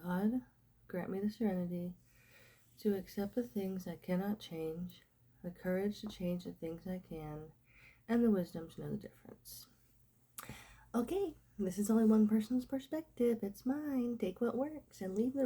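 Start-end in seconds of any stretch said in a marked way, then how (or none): 0.0-9.7 prayer. Acted. Recites the Serenity Prayer.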